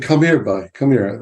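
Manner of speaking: put-on lightly done Cornish accent of an old granddad; a hint of West Country Cornish, calling a boy over. Granddad calling his grandson over in the garden, light Cornish accent. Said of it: "That's my best Cornish accent".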